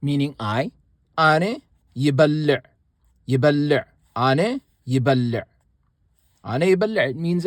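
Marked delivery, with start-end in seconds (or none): 1.2-7.1 Ane يبلع said as ane yəbələ, ane stressed; teacher repeats Ane يبلع; Tigrinya phrase demo. Shown as a demonstration. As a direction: model Ane يبلع clearly for learners. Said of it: "the pronoun would be ane".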